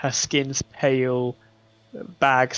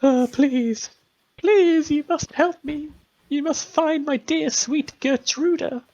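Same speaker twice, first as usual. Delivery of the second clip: put-on high, pleading old woman's voice; high tearful mother pleading at the door; desperate grieving mother; 13 semitones higher, slower than usual. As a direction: beg for your lost child, pitched way up.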